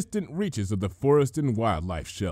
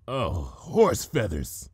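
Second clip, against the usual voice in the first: growled; 3 semitones lower, much slower than usual. Acted. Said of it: "Twilight growled".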